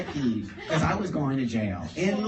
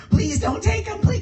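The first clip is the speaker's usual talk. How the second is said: high, pleading cry; desperate plea; 5 dB louder than usual. Retold or imitated. Friends begging the cop not to take him, desperate. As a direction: beg with rising panic.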